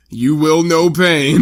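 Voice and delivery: slow, loud villain pronouncement; drawn-out, booming threat; villain proclamation. Retold or imitated. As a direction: proclaim it slowly and ominously. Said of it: "and he goes".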